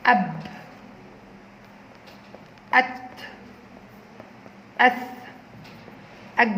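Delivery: أب، أت، أث as isolated short syllables, long pauses between; alif-first sound drill. Shown as a demonstration. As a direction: model each syllable alone, vowel first, consonant closing. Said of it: "أحط حرف الألف يكون أول صوت".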